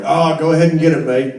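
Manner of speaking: quick, rough imitation of a British accent; attempted British accent. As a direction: imitate a Brit with your best amateur accent. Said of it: "that's my best British accent".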